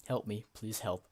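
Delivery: half-hearted shout through the door; mock yell for help. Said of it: "yell at the door".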